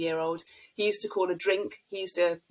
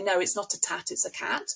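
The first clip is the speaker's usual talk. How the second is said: put-on a mild, matter-of-fact correction of the child's "tat"; the wrong way, a flat corrective no; correcting a child. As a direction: tell the child off lightly for the mistake. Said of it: "we wouldn't say".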